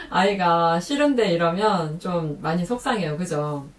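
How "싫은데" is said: put-on high, pouty kid's no; whiny refusal. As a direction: pout it like a fussy child. Child refusing soup in story.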